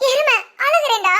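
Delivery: mock crying with a laugh in it; laughing through tears. Sister insists to brother she is crying, laughing through tears. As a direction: claim to cry while giggling. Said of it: "சிரிச்சுக்கிட்டே கண்ணீர் விடுற".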